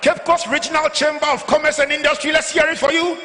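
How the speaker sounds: hype call-out. Real, not acted. MC calling out to crowd.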